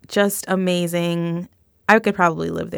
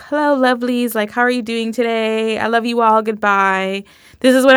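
imitated British accent; 3 semitones higher, 3 dB louder than usual. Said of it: "And she's just like".

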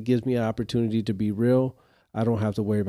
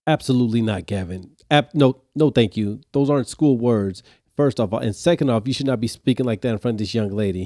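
firm teacher scold; 4 dB louder than usual. Retold or imitated.

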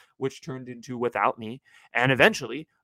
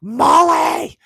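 high, loud wailing yell of a name; half scream, half cry; 11 dB louder than usual. Retold or imitated. Drunk girl wailing her own name at the helper. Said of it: "she half screamed and half cried".

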